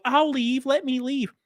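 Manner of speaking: high pleading imitation; mock meltdown. Imitating the guy backing down, mock meltdown. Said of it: "melted a little bit and was like".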